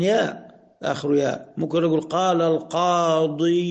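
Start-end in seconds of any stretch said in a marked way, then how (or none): 2.0-3.6 القاضي with a laboured, drawn-out "-iyu" ending; heavy voiced ending. Shown as a demonstration. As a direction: stretch the end of القاضي into a heavy "ee-yuu". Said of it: "شوف صعبة إزاي وثقيلة إزاي".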